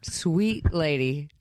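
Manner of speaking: slow, fond sympathy; tender pity. Real, not acted. Host to a too-forgiving guest, tender pity.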